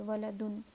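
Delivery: ولدن ending in a full "un"; standalone form. Shown as a demonstration. Teacher showing the word said alone, ولدن with final "un". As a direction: close ولدن on a sounded n. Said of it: "ایسے ہی کہیں اکیلے".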